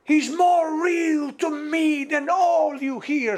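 imitating an impassioned, tearful woman; impassioned cry. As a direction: cry it out slowly with passion. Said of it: "zei ze toen".

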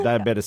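diabetes ending in "tiss", amused; cartoon-show "diabetes" imitation. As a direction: say diabetes with a drawn-out final s. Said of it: "Simpsons or Family Guy did it".

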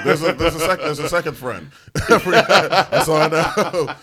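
real laughter through the words; loud, high, laughing as you talk; cracking up. Real, not acted. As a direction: barely get it out for laughing. Cracking up at forgotten name.

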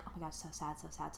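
low, soft repeated so sad; mock mopey. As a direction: mumble it flatly, barely caring. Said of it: "I had been like".

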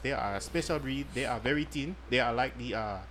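put-on understated African accent, formal sales pitch. Host pitches condoms to female listeners, light mock African accent. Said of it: "You sound African right now".

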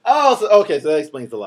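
laughing. Real, not acted. Guest cracks up at reveal.

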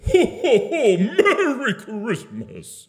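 way over the top, bellowing jolly; high-energy Santa. Acted. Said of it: "How about with a little more energy?".

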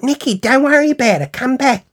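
mimicking a friend calling her off; imitated friend calling back.

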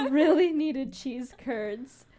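slow, laughing through it. Real, not acted. Laughing while telling friends about the cheese curds. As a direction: giggle out the words.

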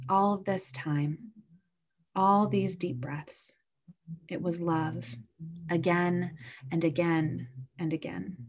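hushed and tender, barely voiced; a mother whispering to her newborn, hushed and gentle; soft whisper. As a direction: breathe it out softly like a new mother. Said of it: "she will whisper softly".

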